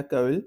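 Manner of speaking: "केविल" said as two syllables, ka-vil; pronunciation demo. Shown as a demonstration. Teacher telling learners how the word is said, pronunciation demo of "केविल". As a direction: model "केविल" with a v in the middle. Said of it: "इसे बोला जाता है".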